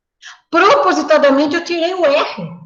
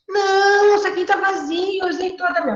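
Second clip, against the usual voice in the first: put-on high, sure little child; child's voice; 7 semitones higher than usual. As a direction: answer like a confident kid. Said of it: "Eu falei". (criança convicta, voz aguda)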